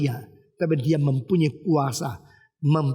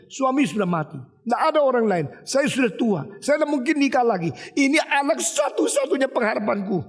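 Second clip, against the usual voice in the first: higher-pitched protesting lament; acted distraught widow; 4 semitones higher than usual. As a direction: imitate an inconsolable widow refusing comfort. Acted widow rejecting comfort. (menirukan janda meratap dan menolak dihibur)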